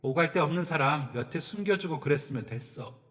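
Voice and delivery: a hint of crying as she plays victim; stepmother's mock tearful lament. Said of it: "숨어 울면서". (울먹이며 신세 한탄하는 계모)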